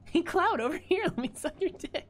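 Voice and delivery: Jessie impersonation. Retold or imitated. Streamer mimics Jessie calling Cloud, high chirpy impression. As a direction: call out like a bubbly young woman waving someone over. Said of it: "That's, that's my Jesse impersonation".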